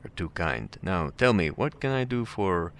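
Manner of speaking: put-on slight Russian accent, drawing out and trailing off; courteous Russian host losing his thread. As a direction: begin politely, then let the question hang unfinished. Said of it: "his voice trails off".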